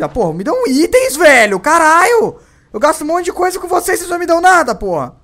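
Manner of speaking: high, loud angry yelling at the game; furious shout. Real, not acted. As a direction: rant at the game at full volume. (gritando com raiva do jogo)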